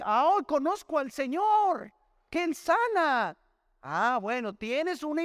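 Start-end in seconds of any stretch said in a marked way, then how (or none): 0.0-3.4 mock proud claim. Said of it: "yo puedo decir".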